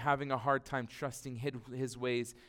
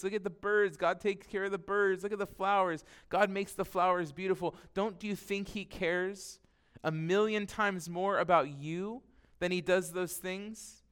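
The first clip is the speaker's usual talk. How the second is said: quoted Jesus, higher and gently coaxing; preacher voicing Jesus, higher and pleading; 5 semitones higher than usual. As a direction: lift the voice to speak as Jesus to worriers. Quoting Jesus on worry.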